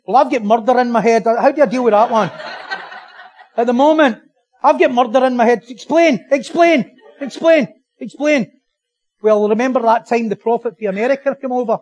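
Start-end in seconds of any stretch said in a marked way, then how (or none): 0.1-8.5 challenging struggler. Acted. Voices struggler challenging pat advice.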